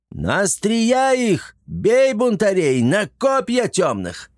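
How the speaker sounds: high, slow, bellowing battle cry; rally the fighters with a roar; booming war cry. A narrator's reading. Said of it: "зычно заорал". (зычный боевой клич)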